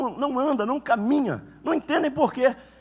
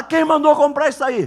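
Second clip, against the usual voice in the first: indignant demand; 2 semitones higher, 6 dB louder than usual. Retold or imitated. Husband finds new stove, demands.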